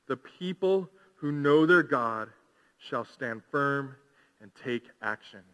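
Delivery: slow, measured verse reading, falling at the end; scripture reading. Real, not acted. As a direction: read it out deliberately, phrase by phrase. Reads verse to congregation.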